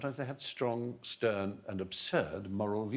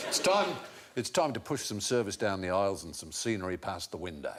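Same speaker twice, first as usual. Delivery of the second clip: Australian flight announcer; 5 semitones lower than usual. Retold or imitated. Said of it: "It's usually Australians".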